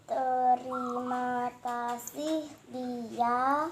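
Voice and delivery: over enunciating. Shown as a demonstration. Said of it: "mengulang apa yang tadi kakak sudah ucapkan".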